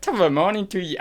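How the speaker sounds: high-pitched stock Irish greeting; Irish accent. Shown as a demonstration. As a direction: attempt a singsong Irish accent. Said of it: "Irish, really".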